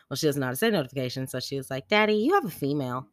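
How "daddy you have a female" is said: high, loud imitation of a child; announcing kid. Daughter telling daddy about his phone, announcing. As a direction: call out the news in a kid voice.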